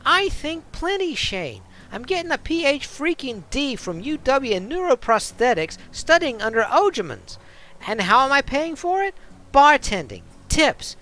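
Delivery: put-on tough bartender snapping back in a New York accent; defiant New York accent. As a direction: put him in his place, New York style. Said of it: "a bit of a New York-ish kind of accent".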